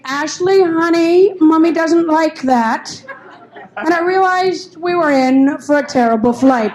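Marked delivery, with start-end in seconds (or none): 0.0-3.0 syrupy, slow mommy voice; a mother coaxing her screaming toddler, syrupy; sweet mother. Retold or imitated. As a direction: coo at the child slowly. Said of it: "I heard the mother say".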